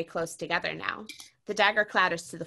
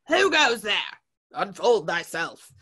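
a watchman searching the empty stage, shouting; guard's challenge; 4 dB louder than usual. A narrator's reading. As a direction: call out into the dark. Invader calling into the dark.

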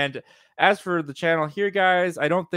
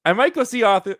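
Boston accent; 7 semitones higher, 4 dB louder than usual. Shown as a demonstration. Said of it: "He almost, almost went into the Boston accent".

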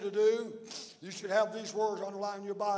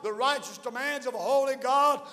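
fervent preacher building and calling out to the church; full-force preaching. Acted. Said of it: "Thank God I could preach all day".

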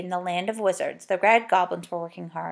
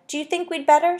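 doubtful; 8 semitones higher than usual. Acted. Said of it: "said Joe doubtfully".

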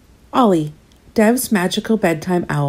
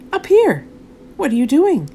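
high, bright call from above; 8 semitones higher than usual. A narrator's reading. Girl in the tree calling down to Dev. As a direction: call down to someone below.

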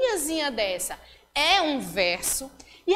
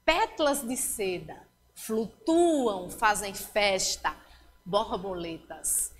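slow, lower reading of the haiku; slow poem reading; 4 semitones lower than usual. Shown as a demonstration. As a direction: read the poem slowly, sinking to the end. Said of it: "veja que aí há uma comparação". (leitura lenta e mais grave do poema)

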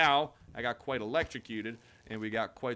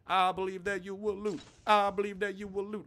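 higher, intense mock pep talk; will them on like a true believer; hammed-up encouragement; 6 semitones higher than usual. Player cheering on his stuck looting character, hammed-up belief.

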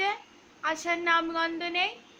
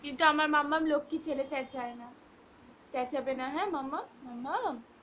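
much softer and lower, coaxing; soft soothing; 3 semitones lower, 5 dB quieter than usual. Real, not acted. Owner softly coaxes her dog not to bark, quiet and low. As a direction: gently coax the pup to stay calm.

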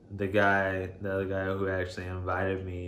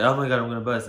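imitated excited exclamation; 4 semitones higher, 9 dB louder, much faster than usual.

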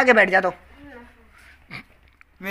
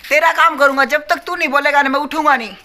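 insistent promise; 5 semitones higher, 8 dB louder than usual. Real, not acted. Loud promise to brother.

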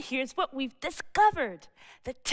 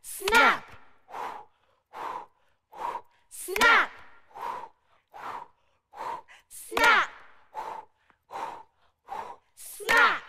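pterodactyl snap; 9 semitones higher, much slower than usual. Pretend. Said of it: "Be a pterodactyl with me".

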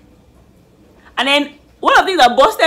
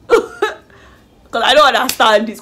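laughing; 3 dB louder, slower than usual. Real, not acted. Laughs in disbelief.

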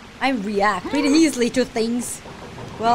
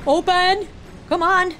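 high, raised-voice demand; impatient urging; 8 semitones higher than usual. Real, not acted. Player waiting on the game, high impatient urging. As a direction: call out as if willing it open.

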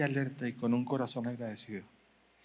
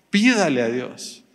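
loud slow exhortation; 7 dB louder than usual. Acted. Preacher exhorting the congregation.

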